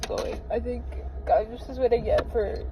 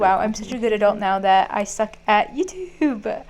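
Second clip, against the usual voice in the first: voice cracking. Real, not acted. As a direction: voice cracks mid-sentence. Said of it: "Why did my voice crack?".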